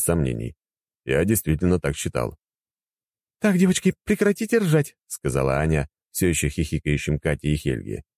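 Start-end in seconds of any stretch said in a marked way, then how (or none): 3.4-5.0 higher woman's voice, bossy; bossy wife. Acted. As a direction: hush the giggling girls. Anya hushing the girls. (строго)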